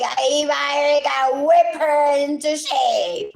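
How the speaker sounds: imitating someone demanding a whipping; mock scolding voice. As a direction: ham up an order to a mother.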